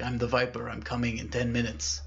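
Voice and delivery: soft, lightly raspy threat; hint at a raspy caller, voice held down. Acted. Viper counting down to the worker, softly raspy. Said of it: "it was a very raspy voice".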